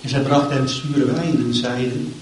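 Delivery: solemn, measured Bible reading; scripture reading. Acted. Preacher reading the crucifixion to the church, solemn. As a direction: read the passage with gravity. Reads Luke 23 aloud.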